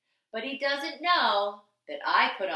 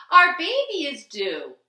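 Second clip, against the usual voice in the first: much louder, higher panic; urgent cry; 6 semitones higher, 10 dB louder than usual. Acted. Expectant father shouting urgently to the driver. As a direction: shout it like a desperate dad-to-be. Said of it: "cried a man".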